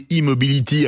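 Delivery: E-Mobility with the E said "ee", English-style; E-Mobility opening on a long English E, as in "see". Real, not acted. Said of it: "on le prononce à l'anglaise".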